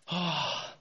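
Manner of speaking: acted yawning sigh. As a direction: breathe out an idle, falling yawn. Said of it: "another person there just yawning".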